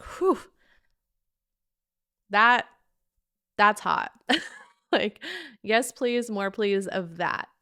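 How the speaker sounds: a burst of loud, delighted approval; excited. Real, not acted. Telling viewers how his apology thrills her, excited. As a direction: let it land and light you up, loud.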